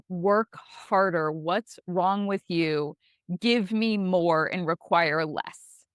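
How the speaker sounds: slow, harsh mock orders to her own body; cruel slave driver. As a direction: lay down the law like a slave driver. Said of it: "so cruel".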